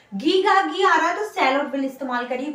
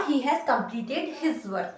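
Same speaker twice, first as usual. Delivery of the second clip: slow dictation; 2 semitones lower, 5 dB quieter, much slower than usual. Shown as a demonstration. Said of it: "मैंने बोला".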